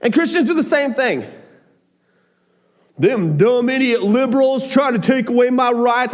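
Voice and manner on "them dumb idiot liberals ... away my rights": mock Southern grumble, pitched up; Southern accent. Preacher parodying people who insult liberals, Southern accent. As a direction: complain in a put-on Southern accent. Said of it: "I don't know why I'm talking in a Southern accent".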